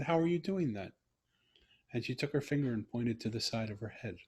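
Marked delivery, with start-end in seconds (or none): 0.0-0.9 higher, wide-eyed retold wonder; amazed question. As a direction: ask it like you can't believe it. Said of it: "I said".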